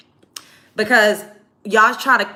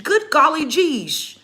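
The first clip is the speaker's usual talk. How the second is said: mock white voice; 5 semitones higher, slower than usual. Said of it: "I don't see none of us saying".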